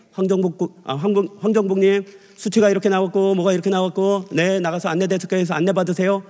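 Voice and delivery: steady, even doctor monotone; detached doctor. Retold or imitated. Doctor reading results to patient off the monitor, detached monotone. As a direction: reel it off like a busy doctor. 모니터만 보는 의사 흉내.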